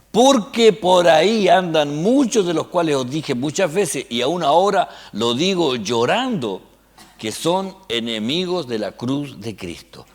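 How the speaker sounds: emphatic Bible reading, starting loud and easing down; forceful preacher reading out a verse; scripture reading. Acted. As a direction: declaim the verse to the congregation. Reads scripture aloud to congregation.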